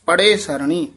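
"ਪੜੇ" said softly, without doubling; "ਪੜੇ" unforced and open; soft pare. Shown as a demonstration. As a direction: keep the consonants light in "ਪੜੇ". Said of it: "ਪੜੇ ਪਦ ਜਿਹੜਾ ਪੋਲਾ ਹੀ ਉਚਾਰਨ".

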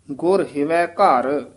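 ਗੁਰ ਹਿਵੈ ਘਰ slowly, then rest; pause after ghar. Shown as a demonstration. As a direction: stop on ਘਰ before going on. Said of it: "ਇੱਥੇ ਵਿਸਰਾਮ ਹੈ".

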